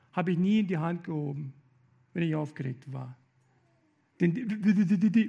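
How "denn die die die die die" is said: stuttering on "die", then fast; showing a stutter. Shown as a demonstration. Speaker recalling being laughed at, stuttering on "die". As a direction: stammer "die, die, die" before rushing on. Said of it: "hab ich gestottert".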